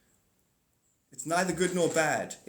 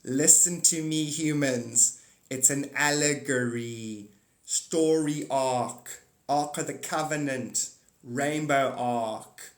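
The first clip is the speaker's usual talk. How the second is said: slow, deliberate preaching to humans; mock divine lecturer; 3 semitones lower, much slower than usual. God addressing the humans, slow mock lecture. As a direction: spell it out to slow pupils. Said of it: "when she rocks up".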